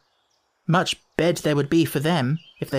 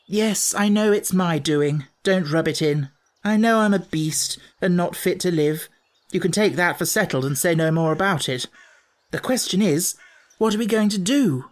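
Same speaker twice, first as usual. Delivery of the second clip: lightly voiced boy, testily admitting blame; exasperated boy owning up; 4 semitones higher than usual. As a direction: own up with impatient emphasis.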